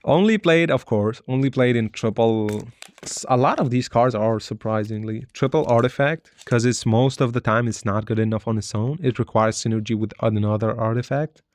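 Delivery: talking while chewing gum. Real, not acted. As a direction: chew gum as you speak. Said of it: "I'm sorry, I'm chewing gum".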